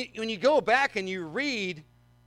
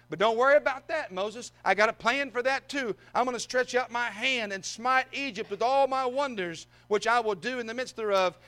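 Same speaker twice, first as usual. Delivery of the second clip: eager, upbeat reassurance; keen and a little raised; excited Lord; 3 semitones higher than usual. Acted. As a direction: preach it as God excitedly sharing a plan. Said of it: "excitement in the Lord's voice as he's talking to him".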